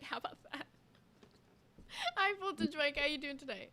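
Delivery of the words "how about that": mock whispered echo; imitating whisper. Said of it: "You're like".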